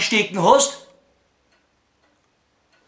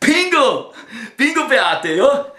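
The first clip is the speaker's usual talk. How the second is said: laughing triumph; 4 semitones higher, slower than usual. Acted.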